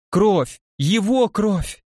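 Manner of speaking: истерично, слово «Его» медленно и высоко; протянуть «Его кровь» в истерике; frantic shouting hostage taker. Acted. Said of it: "истерично закричала она". (истерика, «Его» растянуто)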